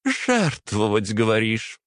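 «Жертвовать» выше и медленно, с насмешкой; презрительно переспросить; усмешка. A narrator's reading. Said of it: "усмехнулась Варвара". (насмешливо переспрашивает отца)

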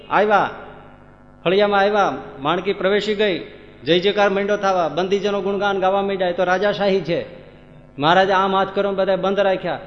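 high, loud storytelling sermon; full-force preaching. Acted. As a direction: drive the scene home to the crowd.

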